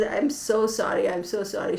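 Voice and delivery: imitated flustered apology, easing off; embarrassed apology. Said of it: "She was so embarrassed".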